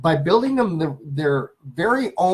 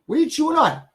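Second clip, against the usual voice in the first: talking to dog; 6 semitones higher, faster than usual. Real, not acted.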